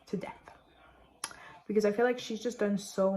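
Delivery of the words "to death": soft breathy whisper on the last words; hushed tender whisper. Real, not acted. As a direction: drop to a whisper to finish. Whispered end of a loving line.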